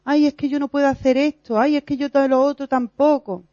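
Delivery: half-hearted imitation of a fearful complainer; whiny fearful excuse. Teacher mimicking believers who excuse themselves, mildly whiny. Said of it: "todos los que decimos que".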